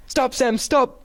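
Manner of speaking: high panicked cry of stop; a scared man on ice pleading; panicked plea. A narrator's reading. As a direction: beg him to stop, clinging on. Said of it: "trembling violently".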